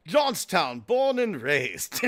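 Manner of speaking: put-on proud, drawn-out British accent. Man naming his hometown, put-on British accent. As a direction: announce it grandly in a mock British accent. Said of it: "I noticed he had an accent".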